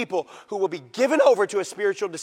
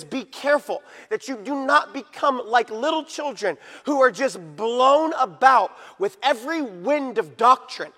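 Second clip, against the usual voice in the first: urgent preaching; 5 semitones higher, 6 dB louder than usual. Real, not acted. Preacher warning church against every new doctrine, building in force. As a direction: pile up the repetitions, then proclaim.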